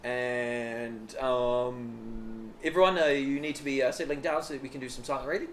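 a hint of a dull teacher; old English teacher. Imitating old English teacher in class, mild. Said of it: "He'd be like".

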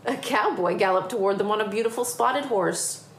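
lively picture-book reading; story narration. A narrator's reading. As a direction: tell it to children with building excitement. Reads picture book aloud.

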